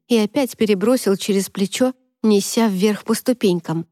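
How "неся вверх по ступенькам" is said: ordinary delivery, nothing marked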